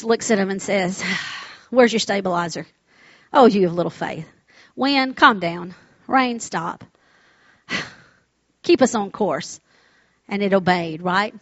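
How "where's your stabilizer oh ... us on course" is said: calm, unbothered reply to panicked followers; lightly acted composure, settling low with a sigh; steady, unhurried command; understated calm. Jesus calmly answers panicked disciples.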